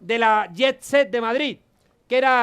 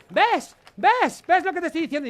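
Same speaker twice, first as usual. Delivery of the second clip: higher, triumphant "told you so"; hammed-up posh lady pouncing; mock scandalised lady, higher pitch; mock indignant lady; 4 semitones higher than usual. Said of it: "y dice".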